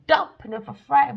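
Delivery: loud punchline; loud repeat. Acted. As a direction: declare it loudly this time.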